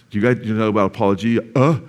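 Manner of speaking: lightly mock a smug show-off. Shown as a demonstration. Preacher mocking a smug Christian showing off a word, smug. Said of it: "Don't say it like that".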